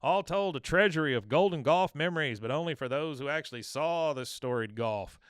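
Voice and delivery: loud, high announcer-style gloat, slowed at the start; a mock sportscaster rubbing it in; the speaker's gloating voice. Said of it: "you hear Dale".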